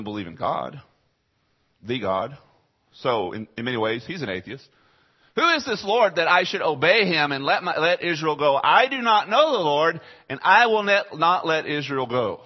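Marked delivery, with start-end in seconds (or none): 5.4-12.4 high, loud haughty refusal; defiant Pharaoh. Retold or imitated. Pharaoh refusing to let Israel go, haughty and loud. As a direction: refuse like an arrogant king.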